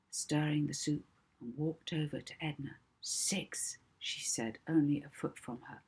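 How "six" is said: whispered. Acted. Hypnotist counting close by.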